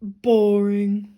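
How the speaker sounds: a bored, dismissive potato voice; grumpy potato. Acted. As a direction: drawl it out like a sulky potato. Potato voice in read-aloud.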